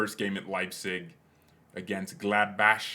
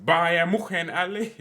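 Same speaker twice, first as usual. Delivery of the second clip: mock cheer; 9 semitones higher, 7 dB louder than usual. Cheering for imagined Bayern glory.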